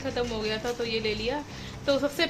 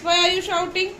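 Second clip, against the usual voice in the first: mock scolding; 7 semitones higher than usual. Real, not acted. Mother scolding toddler.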